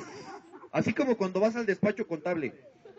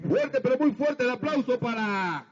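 silly clown announcer; 4 semitones higher, 4 dB louder, slower than usual. Acted.

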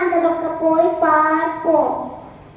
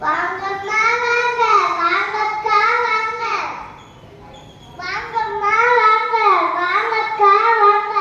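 singsong street hawker. Acted. Shopkeeper calling customers.

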